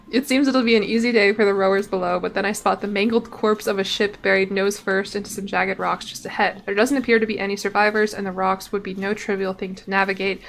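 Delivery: measured reading of a sea tale; story narration. Acted. Streamer reading the sea event to viewers, story narration. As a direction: narrate the voyage like a logbook. Reads game text aloud.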